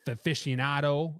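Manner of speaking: put-on a light Boston accent. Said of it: "with my Boston accent?".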